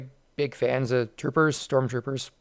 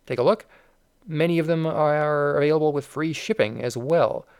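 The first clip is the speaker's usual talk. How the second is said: warbling voice. Real, not acted. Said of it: "I can tell by my warbling voice".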